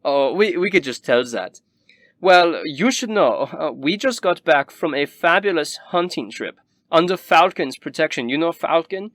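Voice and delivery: high, gushing rich snob; snooty noble. Acted. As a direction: boast about the hunting trip. Noble keeps talking to guest.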